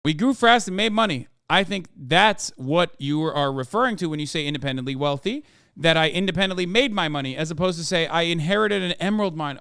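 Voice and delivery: put-on light Icelandic accent reading a letter. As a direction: read it with a hint of an Icelandic lilt. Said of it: "it's hard to keep doing the accent".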